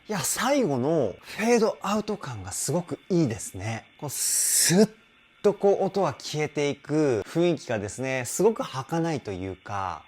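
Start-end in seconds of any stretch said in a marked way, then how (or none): 4.0-4.9 fading breath sound. Shown as a demonstration. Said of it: "こう、スッ とこう音は消えていく".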